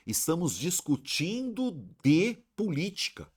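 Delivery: frase dita bem mais aguda; agudo, marcando o "de" como estranho; exemplo contrastado. Shown as a demonstration. (comparação com voz mais aguda)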